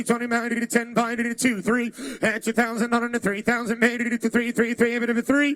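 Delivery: rhythmic rapid auction chant; auctioneer. Acted. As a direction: rattle off the bids like an auctioneer. Auction chant calling bids.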